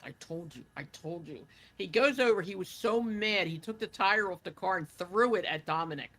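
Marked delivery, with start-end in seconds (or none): 0.0-1.5 mumbling under breath. Retold or imitated. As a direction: grumble it quietly to yourself, as if retelling his complaint. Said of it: "mumbled a lot under his breath".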